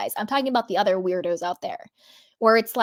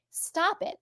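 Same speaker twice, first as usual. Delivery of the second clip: a high, softer, fed-up "Stop it"; exasperated stop it; 8 semitones higher, 8 dB quieter than usual. Retold or imitated. Tired of Dorit's excuses, high and soft. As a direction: drop it in tired disbelief. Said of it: "it's just like".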